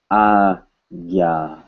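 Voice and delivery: "Agya" in two long, separated syllables; "Agya" slowly modelled, no n; Hindi pronunciation. Shown as a demonstration. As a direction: draw out "Agya" as ah, then gya. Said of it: "This is pronounced in Hindi".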